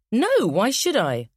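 put-on slow whiny boy's refusal; sulky child. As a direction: drag it out like a sulking boy.

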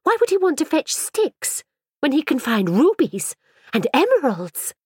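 high, grand boasting voice; boastful girl. A narrator's reading. Mirabelle bragging to Ellen, high and grand. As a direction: brag as if it were obvious.

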